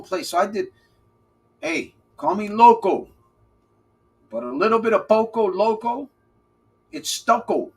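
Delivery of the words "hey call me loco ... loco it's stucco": playful rhyme. Acted. Playful rhyming bit.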